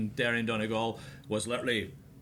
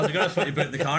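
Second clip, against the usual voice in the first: louder, laughing as the prank gives way; can't keep a straight face while saying it; louder with laughter breaking through; 3 semitones higher, 5 dB louder, much faster than usual. Retold or imitated.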